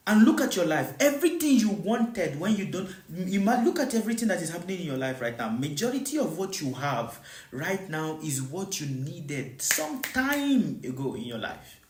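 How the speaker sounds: ordinary talk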